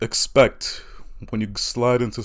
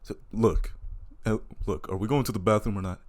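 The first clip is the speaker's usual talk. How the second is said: lower, softer, quick and impatient; Rudy's impatient voice; 4 semitones lower, 8 dB quieter than usual. Retold or imitated. Rudy pressing Cassandra, low and impatient. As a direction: hurry her along, bored.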